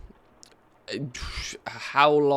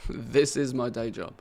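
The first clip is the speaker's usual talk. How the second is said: laughing. Real, not acted. Laughing while answering chat.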